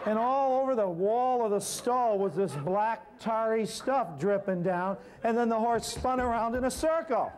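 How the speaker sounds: can barely keep from laughing as the story gets absurd; laughing while recounting the messy horse. Real, not acted.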